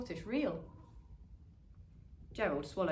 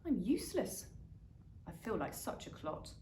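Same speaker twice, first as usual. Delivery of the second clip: dejected; 3 dB quieter than usual. Acted. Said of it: "he thought".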